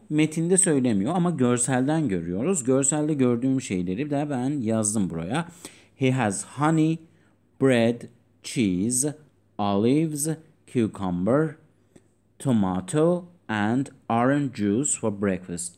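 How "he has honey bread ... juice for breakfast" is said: tomato said the British way, tomahto; tomato in British English. Shown as a demonstration. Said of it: "British aksanıyla tomato deniliyor".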